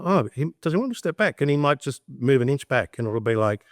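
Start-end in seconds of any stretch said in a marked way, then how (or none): 0.0-1.4 horse's inner voice. Retold or imitated. Voicing the horse.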